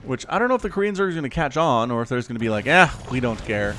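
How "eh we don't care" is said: put-on dismissive line in a muddled Scottish accent; a hint of Scottish, maybe Russian; lightly put-on, uncertain Scottish accent; vaguely Scottish accent. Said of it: "a Scottish accent or something".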